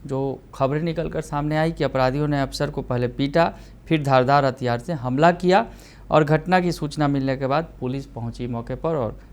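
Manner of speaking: brisk, emphatic TV news delivery; news anchor read. Acted. Anchor presents the murder story to viewers, news read.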